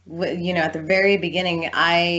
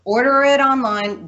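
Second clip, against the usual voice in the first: retold retort; 7 semitones higher, 6 dB louder than usual. Retorting to the yelling guy.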